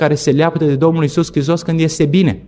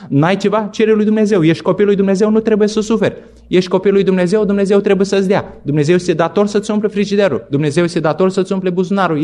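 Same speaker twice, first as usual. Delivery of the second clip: higher, mock-enthusiastic preacher's promise; mocking prosperity preacher; 5 semitones higher than usual. Pastor mocking prosperity gospel to his church, higher, mocking preacher voice. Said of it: "Evanghelia care se predică astăzi".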